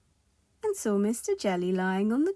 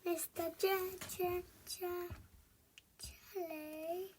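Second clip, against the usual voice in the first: high stammer fading to softness; stutter, trailing off softly; 9 semitones higher, 12 dB quieter, slower than usual. Shown as a demonstration. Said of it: "second take of stammer".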